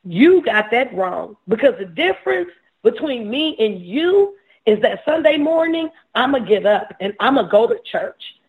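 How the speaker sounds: imitating his younger self's emphatic boast. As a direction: set them straight, emphatically. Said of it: "I said this very emphatically, just like this".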